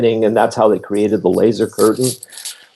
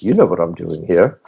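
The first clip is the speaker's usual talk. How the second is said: lightly imitated South African accent; a hint of a South African accent, dry; 3 semitones lower than usual. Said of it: "he says in his South African accent".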